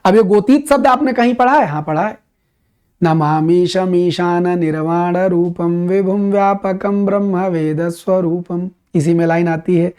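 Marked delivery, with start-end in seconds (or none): 3.0-8.7 slow, measured chant of a Sanskrit hymn; hymn recitation. Shown as a demonstration. Teacher reciting the Shiva hymn to students, slow devotional chant. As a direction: intone each word of the prayer slowly. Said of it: "वो जो प्रार्थना शिव जी के लिए गाई जाती है".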